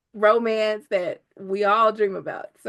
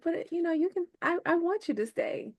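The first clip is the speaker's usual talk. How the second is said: pleading heroine; 9 semitones higher, 6 dB quieter than usual. Retold or imitated. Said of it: "I like that scene where she's like".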